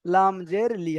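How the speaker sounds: লাম জের লি with a short লি; no elongation on লি in লাম জের লি; short LI, no stretch. Shown as a demonstration. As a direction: spell out লাম জের লি, cutting the last vowel short. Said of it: "টান হবে না".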